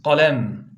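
Kalem said with a deep throat qaf. Shown as a demonstration. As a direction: model Kalem with a back-of-throat q. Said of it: "ka diye okunmak durumunda". (kalın kaflı "Kalem")

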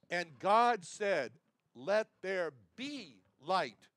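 slow, weighty divine command. Pretend. Preacher voices God creating light, slow and commanding. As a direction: proclaim it slowly, each word deliberate. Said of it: "same commanding voice".

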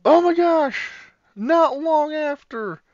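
hushed wildlife narrator turning excited; nature documentary. Pretend. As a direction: narrate the beans like a nature film.

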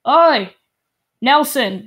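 loud call across the room. Acted. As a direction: shout for Nelson through the door. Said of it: "and he's like".

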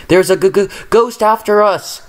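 high, stammering frightened voice; shivering with fear. A narrator's reading. Thomas, still scared, telling Duck about the ghost. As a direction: stutter out the word ghost in fright. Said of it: "Thomas shivered".

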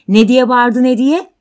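loud, high, urgent question; startled, insistent outburst; agitated demand. Acted. Man jumps up, demands an answer.

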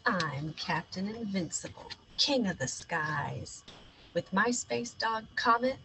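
bold captain narrating his mission; heroic space captain. Acted. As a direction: play the brave space hero. Child hero voices adventure.

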